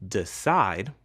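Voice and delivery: "Decide" carefully in two beats, de-cide; two syllables shown. Shown as a demonstration. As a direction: sound out both syllables of "Decide". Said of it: "has two syllables".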